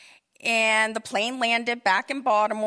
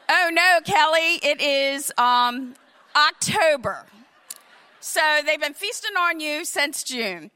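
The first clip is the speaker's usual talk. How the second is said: mock dismay; 2 semitones higher than usual. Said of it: "I said her name".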